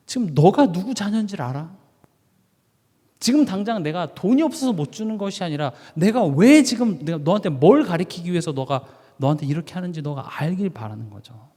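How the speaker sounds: put-on mildly indignant dad scolding his child; lightly acted fatherly telling-off; angry dad. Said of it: "화가 나는 거죠".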